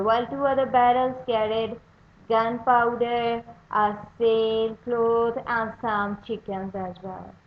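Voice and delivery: story narration. A narrator's reading. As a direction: read the chapter to young readers with energy. Teacher reads chapter aloud.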